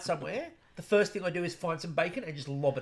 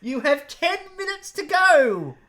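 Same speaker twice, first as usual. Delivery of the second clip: announcer countdown; 6 semitones higher, 7 dB louder, slower than usual. Retold or imitated. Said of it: "where she said".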